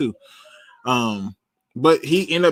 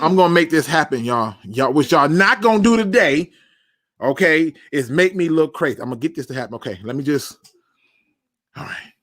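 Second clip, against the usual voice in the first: ordinary talk, nothing marked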